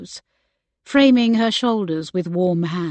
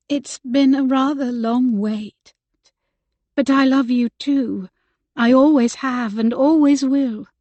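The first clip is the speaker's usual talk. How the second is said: higher and brighter, a touch louder; trembling grin; 4 semitones higher, 3 dB louder than usual. Acted. Rebecca accepting the proposal, a touch of tremulous joy. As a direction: let joy break through as you answer. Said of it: "With a trembling grin".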